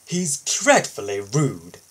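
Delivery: slow, disapproving grumble; a lightly voiced cross old engine; grumbling. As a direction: grumble it to your driver. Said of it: "Gordon grumbled to his driver".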